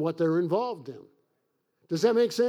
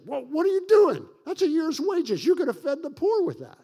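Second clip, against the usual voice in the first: indignant disciples; 8 semitones higher, 5 dB louder than usual. Retold or imitated. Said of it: "Even his disciples say".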